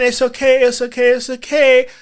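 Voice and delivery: reliving the panic, pushing words out through tears; tearful. Real, not acted. Crying while repeating it's okay.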